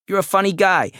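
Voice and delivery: high, loudish delighted exclamation; tickled little man's voice; amused. A narrator's reading. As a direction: tell him he's a hoot, pitched right up. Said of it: "Raymond is delighted when Sam laughs".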